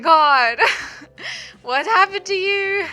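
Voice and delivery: mock horrified mother; shocked mom. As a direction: gasp at the injury like a worried mother. Friend's mom shocked on arrival.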